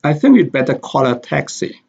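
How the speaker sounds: "think", "better", "call", "taxi" stressed, small words weak. Shown as a demonstration. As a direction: lift "think", keep "I", "we'd" and "a" light. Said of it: "The stress is on think".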